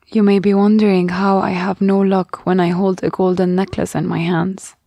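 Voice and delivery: usual speaking voice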